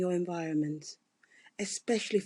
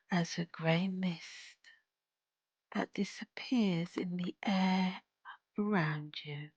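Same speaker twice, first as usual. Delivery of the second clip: slow, hushed meditation delivery with long pauses; guided meditation; 3 dB quieter, slower than usual. Acted. Guide leading a listener to a starry healing place, soothing meditation. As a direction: ease them into calm, phrase by unhurried phrase.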